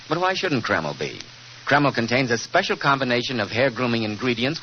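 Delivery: put-on smooth old-time radio commercial; ad read. Host pitching hair tonic to listeners, persuasive ad read. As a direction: sell the hair tonic with polish.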